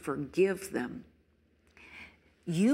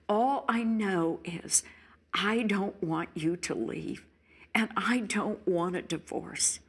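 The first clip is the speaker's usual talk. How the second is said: a touch of a begging, sorry spouse; mild mock plea for forgiveness; lightly voiced repentant husband; pleading spouse. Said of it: "there's a pleading".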